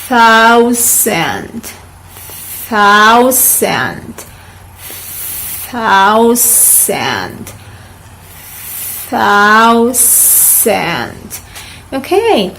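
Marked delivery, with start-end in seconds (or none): 0.1-11.4 "thousand" with a soft TH, long pauses between; soft th drill. Shown as a demonstration. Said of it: "one more time".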